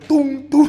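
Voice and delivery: high, ringing hammer noise; imitated wheel tapping. Grandson showing his grandfather tapping train wheels, imitated clanks. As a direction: mimic the tap of a hammer on metal.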